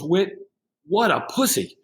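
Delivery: half-playful mocking yell; mock taunting yell. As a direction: sneer at him like a heckler calling him out. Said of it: "he starts yelling at me and calling me names".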